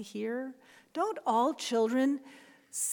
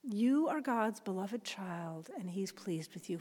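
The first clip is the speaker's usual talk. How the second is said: slow soft blessing; 3 semitones lower, 5 dB quieter than usual. Shown as a demonstration. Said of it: "say this to someone".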